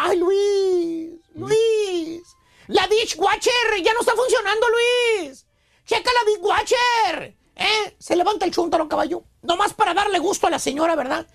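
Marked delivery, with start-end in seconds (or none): 0.0-7.4 drawn-out, lightly voiced wife's call; wife calling husband. Wife telling Luis the dishwasher is broken, lightly acted nagging. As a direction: stretch out the name like a complaining spouse. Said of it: "Le dice la señora".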